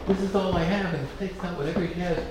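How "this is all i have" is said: pleading mother. Retold or imitated. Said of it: "She says".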